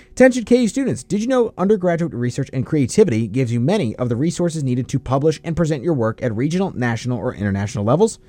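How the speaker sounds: brisk, bright-start announcement read. Acted. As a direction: read a campus message to listeners. Reads a sponsor message.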